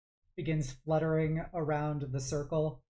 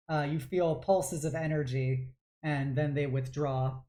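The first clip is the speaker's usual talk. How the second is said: ordinary delivery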